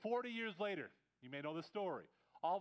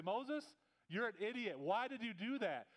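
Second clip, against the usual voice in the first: raised, pushed-up voice, blaming Moses; exasperated complaint; 4 semitones higher than usual. Retold or imitated. The people turn on Moses, mock exasperated outburst. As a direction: throw the blame at him, half-mocking.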